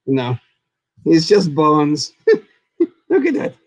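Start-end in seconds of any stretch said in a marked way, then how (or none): 3.1-3.5 very high, squawking bird puppet voice; cawing raven. Pretend. Raven puppet threatening the Dead Skeleton, high squawky mock menace.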